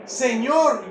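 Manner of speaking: loud, falling plea to the Lord; imitated crying out. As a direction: call out like a pleading woman, mildly. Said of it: "estaba gritando esa mujer".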